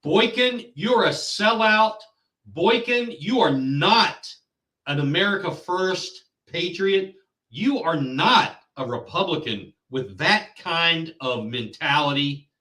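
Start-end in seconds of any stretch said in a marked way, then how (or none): 0.0-8.8 jab at the councilman with real anger; angry callout. Real, not acted. Angry host calling out councilman.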